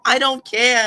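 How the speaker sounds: loud, high, brushing it off; dismissive retort. Acted. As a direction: snap it off, hammed up. Henry retorting in voice.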